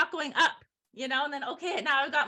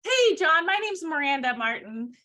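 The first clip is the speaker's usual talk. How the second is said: phone greeting demo; 3 dB louder than usual. Shown as a demonstration. Trainer role-playing a cold call to John, upbeat introduction. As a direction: introduce yourself briskly to a client. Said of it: "So if I say".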